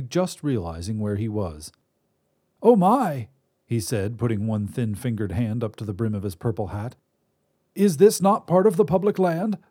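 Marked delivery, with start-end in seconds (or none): 2.6-3.3 put-on higher reedy old man's voice; reedy old wizard. Wizard voice held. 7.7-9.6 put-on higher reedy old man's voice; reedy old wizard. Wizard voice held.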